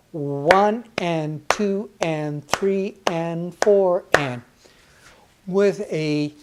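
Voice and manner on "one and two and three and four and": slow counting eighths. Shown as a demonstration. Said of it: "On a eighth note".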